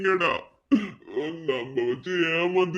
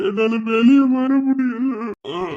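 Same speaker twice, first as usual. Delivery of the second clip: anguished cry; 3 semitones higher, 4 dB louder than usual. Acted. Drunk lovesick man wailing.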